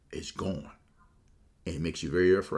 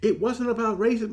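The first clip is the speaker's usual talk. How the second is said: mock Stephen A; 4 dB louder than usual. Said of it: "went on Chris Russo's program and said".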